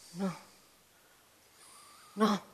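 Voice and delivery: appena mormorato, scosso; un no sommesso e turbato; mormorio cupo. A narrator's reading. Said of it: "mormorò Wisdom, scosso con voce cupa". (mormorio cupo e scosso)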